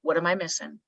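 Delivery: calm, open. Retold or imitated. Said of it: "take a deep breath and be like".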